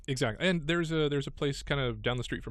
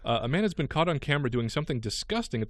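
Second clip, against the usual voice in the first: light, lively news-story read. Real, not acted. Radio host reading a gross news item to co-host, news read.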